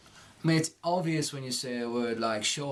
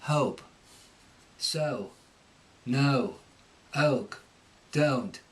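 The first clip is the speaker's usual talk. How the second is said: Cockney vowel, uh before o; Cockney accent; much slower than usual. Shown as a demonstration. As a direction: slide uh-oh into each word, Cockney. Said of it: "with the Cockney".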